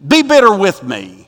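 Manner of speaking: loud, embittered retort; acting out a bitter woman's protest; acted bitterness. Naomi to those welcoming her home, bitterly. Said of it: "she's bitter about that".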